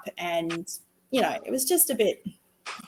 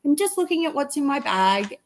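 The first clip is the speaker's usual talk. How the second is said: lightly voiced small boy, higher; a hint of a cheerful little boy answering Mum; little son; 5 semitones higher than usual. Little boy reassuring Mum from the back seat, lightly higher child voice.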